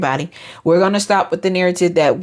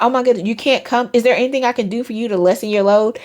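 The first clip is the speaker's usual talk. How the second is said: caring concern; 4 semitones higher, faster than usual. Retold or imitated.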